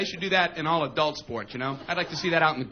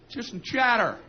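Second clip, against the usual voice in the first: mildly raised mock coach's yell; half-strength imitation of a coach's holler; 4 semitones higher than usual. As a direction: call out to the team from the dugout. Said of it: "our coach would yell from the dugout".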